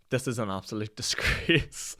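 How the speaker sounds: slow, outraged Karen impression; mock Karen indignation, drawn out; a lightly hammed-up Karen complaint; imitating girlfriend's Karen voice. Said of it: "she's a little bit of a Karen".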